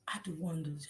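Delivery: unvoiced whispered "I do wonders". Real, not acted. Boasting to the chat about cooking, whispered.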